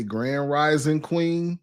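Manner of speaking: slow drawn-out greeting; slow, syrupy mock greeting. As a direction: croon it like a smooth pickup line. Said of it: "if he say".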